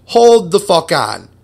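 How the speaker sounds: loud, rising disbelief, pitch climbing high; mind-blown shout. Retold or imitated. Telling friends about discovering cosmic Marvel comics, mind-blown loud shout. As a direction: yell it like the universe just cracked open. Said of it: "and I'm like".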